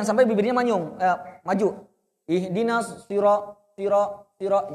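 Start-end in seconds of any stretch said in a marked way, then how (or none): 2.3-4.7 "siro-" with lips pushed forward; wrong pronunciation demo. Shown as a demonstration. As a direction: show the error: "siro-" rounded.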